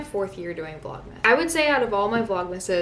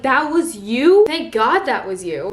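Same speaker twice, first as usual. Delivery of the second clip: loud, high, drawn-out incredulous reaction; retold astonished relief; 4 semitones higher, 8 dB louder, slower than usual. Retelling her reply to the friend who yelled, astonished relief. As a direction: re-enact stretched-out disbelief turning to relief.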